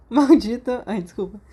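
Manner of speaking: word squeezed out through a laugh. Real, not acted. The reader still laughing at the name, giggling through it. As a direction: still giggling, trying to read on.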